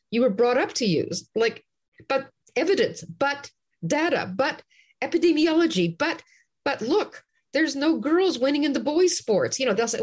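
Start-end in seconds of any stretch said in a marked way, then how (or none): 2.1-9.6 higher-pitched, pleading objection; mock exasperated arguing; protesting objector. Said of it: "you can't argue with the kind of arguments".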